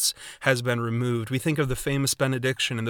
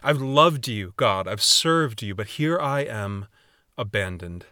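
louder, aggrieved plea; complaint to God; 3 dB louder than usual. Retold or imitated. David protesting to God, louder and aggrieved. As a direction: cry out at the unfairness, hurt. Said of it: "You can hear him saying to God".

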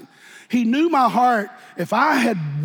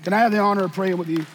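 altar call. Acted. Preacher gently inviting the congregation to the altar. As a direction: coax them gently down to the altar.

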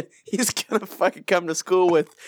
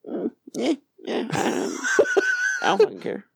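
put-on defiant kid. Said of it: "I'm like".

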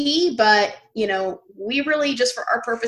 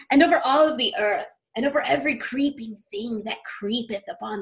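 majestic voice. Shown as a demonstration. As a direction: read it like a majestic proclamation. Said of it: "I'm going to read in my most majestic voice now".

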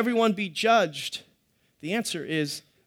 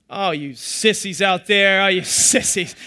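slow, louder mock scolding with a laugh; teasing jab; 6 dB louder, slower than usual. Pastor ribbing the congregation about swallowing pills, mock taunt. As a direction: tease the crowd for being sissies. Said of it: "I'm just kidding".

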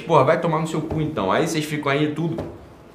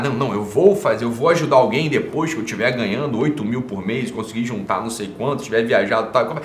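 lower, mocking know-it-all tone; mocking calculators; 5 semitones lower than usual. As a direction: parody a cautious penny-pincher. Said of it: "tem uma galera que gosta de calcular".

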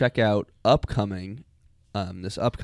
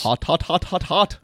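Burning Man voice; 8 semitones higher, 4 dB louder than usual. Retold or imitated. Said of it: "Thanks, Burning Man".

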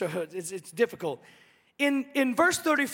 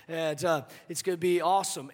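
breezy angel; 8 semitones lower, 6 dB quieter, faster than usual. Retold or imitated. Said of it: "the angel said".

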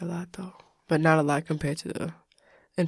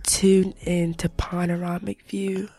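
slow mock Aussie host welcome; hammed-up Australian accent, slowly; put-on Australian accent. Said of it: "I'm an accent bursterer".

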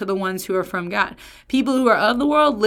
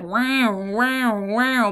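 drawn-out siren-like wow, wow, wow; imitated alarm; 2 semitones higher, much slower than usual. Shown as a demonstration. Preacher likens word order to a warning light, imitated alarm. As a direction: mimic a flashing warning signal with your voice. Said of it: "putting a big red light".

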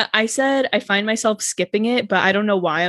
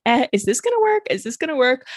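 mock worried voice; 5 semitones higher than usual. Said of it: "how the engine sounds like".

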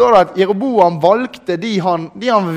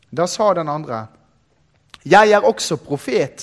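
scripture reading. Acted. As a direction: read the passage deliberately to the congregation. Reads scripture aloud to congregation.

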